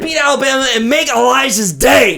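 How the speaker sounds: loud, high rallying shout; hype shout. Acted. Rallying a gloomy Tennessee fan, a loud high shout. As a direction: fire him up like a coach at halftime.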